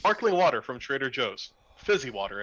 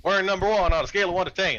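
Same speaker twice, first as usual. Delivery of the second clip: boasting; 6 semitones higher, 6 dB louder, faster than usual. Acted. Mock boast.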